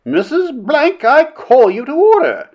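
very high, imperious call; commanding princess, pitched right up; cried reprimand. A narrator's reading. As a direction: call the offender out from the chair. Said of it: "cried the princess".

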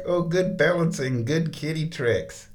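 high sing-song praise; high praising coo; pet praise. Real, not acted. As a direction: cheer the cat on. Praising cat.

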